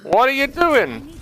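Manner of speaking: high, slow disbelieving wail; exasperated. Real, not acted. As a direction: stretch it out in disbelief. Coach repeats reaction.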